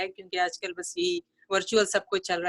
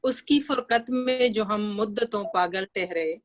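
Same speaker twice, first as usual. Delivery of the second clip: measured, lilting verse reading; ghazal recitation. Acted. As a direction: recite the couplet for a mushaira audience. Recites her ghazal to audience.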